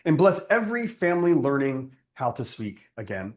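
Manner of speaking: measured prayer cadence, each petition set apart; closing prayer. Acted. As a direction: pray it over the gathering, unhurried. Closing prayer before the teaching.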